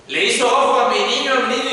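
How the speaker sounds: mock panicked mother fretting over her child; worried mother. Imitating a worried folk mother.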